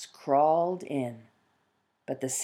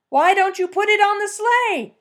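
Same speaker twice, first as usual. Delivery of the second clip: much higher, loud hunter calling; hunter's voice; 7 dB louder than usual. Acted. Fox as hunter questioning the peasant about the stump.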